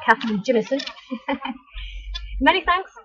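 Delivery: Scottish accent. Shown as a demonstration. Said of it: "I wanna say it in a Scottish accent".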